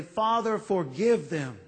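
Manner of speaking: gentle plea to the Father; lightly voiced dying prayer; pleading prayer. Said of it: "A pleading prayer".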